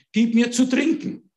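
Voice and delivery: lightly voiced Jesus at the well; Jesus asking. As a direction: ask for a drink plainly. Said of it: "Er sagt".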